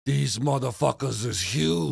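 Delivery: put-on lightly done Italian-New York accent; slow, lightly voiced New York Italian accent; Mike Tyson impression. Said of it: "In his old Italian accent".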